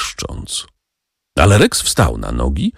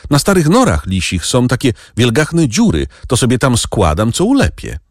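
put-on village boy Tomek; 8 semitones higher than usual. Narrator voices the boy Tomek.

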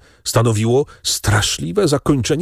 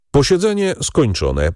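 higher-pitched courtroom announcement; formal announcement; 7 semitones higher than usual. A narrator's reading. Presiding judge closing the court session, formal announcement. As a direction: declare the sitting closed. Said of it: "oznajmił przewodniczący".

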